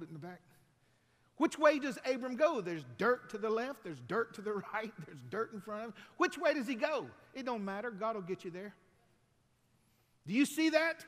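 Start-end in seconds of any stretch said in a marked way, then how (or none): 1.4-11.0 loud, high, driving sermon climax; full-force preaching. Acted. Preacher pressing the congregation, at full force. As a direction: preach it out to the crowd.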